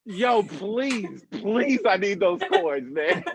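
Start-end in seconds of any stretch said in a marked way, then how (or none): 0.1-1.8 beg, climbing on the repeat; pleading. Acted. Comic to coin owner, playful pleading. Begging audience member for coins.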